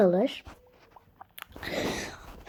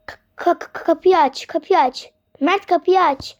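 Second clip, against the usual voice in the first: mock panic; 4 semitones higher than usual. Panicking at locked door.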